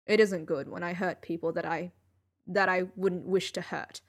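lightly voiced weary genius; Sherlock voice. Sherlock speaking in story.

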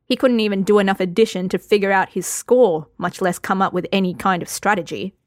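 ordinary delivery

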